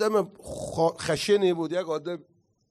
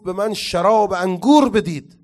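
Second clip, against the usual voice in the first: loud imitated demand; louder, half-shouted retelling of a cry; retold shout; 3 semitones higher, 7 dB louder than usual. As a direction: raise your voice as if yelling for a drink. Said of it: "فریاد زد، گفت".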